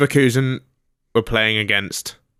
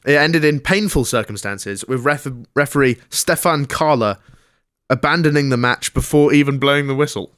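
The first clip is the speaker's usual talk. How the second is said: raised, projected sports-segment read; news read; 4 semitones higher than usual. Acted. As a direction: present the headline like a sports newsreader. Reads out the sports story.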